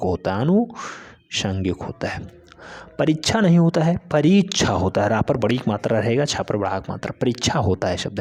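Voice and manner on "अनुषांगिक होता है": अनुषांगिक spelled out slowly and softly; slow it down for students; slow dictation. Shown as a demonstration. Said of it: "slow repeat for dictation". (धीमे से बोलकर लिखवाना)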